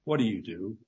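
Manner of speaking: quiet, even question after the shouting; calm question. A narrator's reading. Ricky calmly asking Robinson after the insult, quiet and even. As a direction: drop back to calm and ask plainly. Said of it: "then added calmly".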